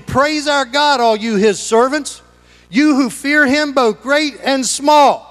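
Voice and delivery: rising ringing call; proclaiming. Acted. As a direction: announce it from the throne. Voice from the throne, proclaimed.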